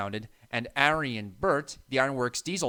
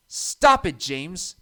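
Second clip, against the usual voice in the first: sharp high loud yell; 4 semitones higher, 7 dB louder, much slower than usual. A narrator's reading. Thomas yelling at James in the dark, loud yell. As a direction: tell him off with a yell. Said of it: "Thomas yelled".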